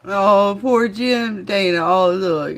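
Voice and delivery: loud, hammed-up lament over poor Jim; mock mournful Jim impression. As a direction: wail it out like a mock eulogy. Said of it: "That was the perfect interpretation".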